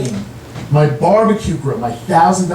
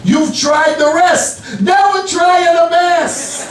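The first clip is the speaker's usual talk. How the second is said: slow proud dad; 11 semitones higher, slower than usual. Retold or imitated. Dad's punchline, slow.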